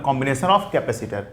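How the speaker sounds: slow, word by word, for note-taking; slow dictation to a class. Shown as a demonstration. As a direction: spell it out slowly so students can write. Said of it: "combination of capacitor ही लिखो".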